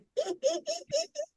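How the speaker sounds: very high giggling hyena cackle. Retold or imitated. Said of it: "The hyena is cackling and was giggling".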